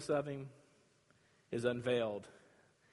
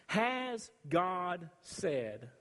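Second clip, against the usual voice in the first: slow, drawn-out sly question; sly serpent; much slower than usual. Acted. Serpent to Eve, slow and insinuating. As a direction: plant the doubt slowly. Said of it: "Now notice what the serpent is doing".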